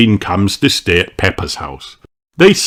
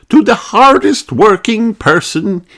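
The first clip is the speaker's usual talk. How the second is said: high, louder royal greeting; the Queen; 12 semitones higher, 3 dB louder than usual. A narrator's reading. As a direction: address the nation grandly. Queen's announcement.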